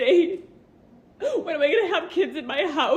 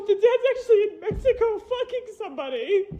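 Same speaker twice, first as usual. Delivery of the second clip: bitter, teary laugh; laughing through tears at the betrayal; crying while talking; 5 semitones higher than usual. Real, not acted. Mother tells the doctor where the dad is, crying.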